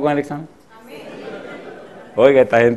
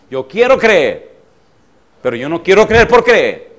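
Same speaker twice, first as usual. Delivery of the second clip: insistent plea; 3 semitones higher, 5 dB louder than usual. Retold or imitated. Voicing the woman's insistent plea.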